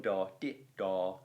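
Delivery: sung out as long short long beats, da, di, da; da di da rhythm. Shown as a demonstration. Teacher chanting the rhythm for students, beat by beat. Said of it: "then you'd have gone".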